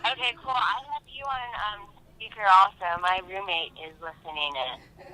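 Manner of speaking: caller over a phone line; quiet voice through phone speaker. Real, not acted. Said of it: "I'm holding my phone up to the microphone".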